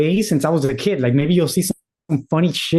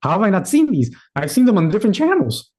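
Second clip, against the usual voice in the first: high, startled disbelief; surprised; 4 semitones higher than usual. Pretend. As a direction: pitch up in sudden disbelief. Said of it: "you're gonna be like".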